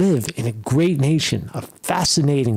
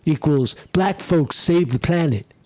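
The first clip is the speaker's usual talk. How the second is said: mocking quote; 3 semitones higher than usual. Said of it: "He says".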